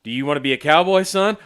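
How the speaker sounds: hammed-up rodeo coach shout; mock cowboy trainer. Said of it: "say it like a cowboy".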